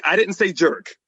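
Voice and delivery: laughing through it; laughing admission. Real, not acted. Telling Rosie he used a worse word, laughing. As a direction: admit it with a laugh. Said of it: "But Rosie".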